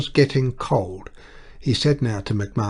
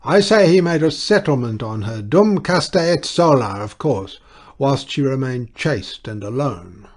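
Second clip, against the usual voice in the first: loud, high outburst; shouting; 4 semitones higher, 6 dB louder than usual. A narrator's reading. Deranged clergyman shouts at the breakfast guests. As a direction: blurt it out across the table. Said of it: "Mister Duchemin shouted".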